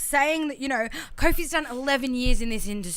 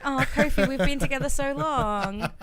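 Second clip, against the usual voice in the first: mock nostalgic sigh. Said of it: "I was like".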